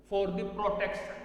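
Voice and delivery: "for the protection" drawn out; slow dictation. Shown as a demonstration. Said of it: "dictating notes".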